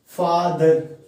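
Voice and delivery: फादर drawn out in two syllables; teacher sounding out फादर as two beats; syllable demonstration. Shown as a demonstration. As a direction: lengthen both beats of फादर. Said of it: "दो बार में बोल पा रहे हैं".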